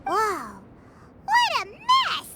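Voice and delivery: shocked at the dust everywhere; surprised. Acted. Paimon gasps at Albedo's dusty camp, surprised.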